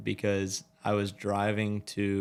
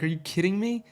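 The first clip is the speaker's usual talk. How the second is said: high, incredulous imitation of the buddy; mimicking the buddy's disbelief; mock outraged friend; 10 semitones higher than usual. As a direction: squeak it out like the stunned friend. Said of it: "he was like".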